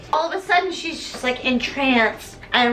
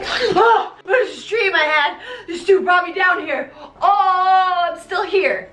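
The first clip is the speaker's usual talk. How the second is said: Christine waking; 5 semitones higher than usual. Acted. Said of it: "And she's like".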